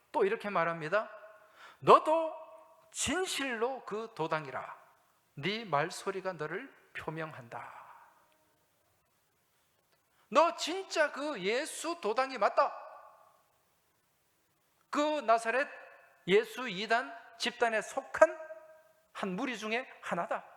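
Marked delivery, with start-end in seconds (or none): 1.8-7.8 bystanders' accusation. Acted. 10.3-20.4 loud, high, slow accusing crowd; insistent accusation. Acted. Bystanders accusing Peter, loud and slow, pressing him.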